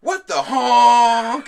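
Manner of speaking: put-on high, slow little girl squeal; excited child voice. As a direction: squeal it like a delighted kid. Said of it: "she was like".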